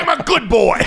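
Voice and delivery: imitating small child. Imitating the little son.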